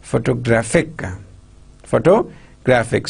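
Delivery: "photographic" with stresses on PHO and GRAPH; double word stress. Shown as a demonstration. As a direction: show both stressed syllables in photographic. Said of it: "There are two syllables are stressed".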